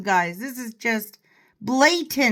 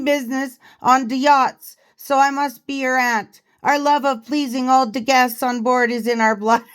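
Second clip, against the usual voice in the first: mock African accent; 2 semitones higher than usual. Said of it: "Hope you like my accent".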